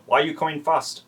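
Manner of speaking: put-on Asian accent for a quote; imitated Asian accent. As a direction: do a joking impression in an Asian accent. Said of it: "because you're doing the accent".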